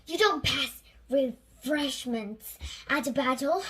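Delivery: loud, exasperated snap; yelled. Acted. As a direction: yell it down at the crew. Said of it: "yelled President Penguin".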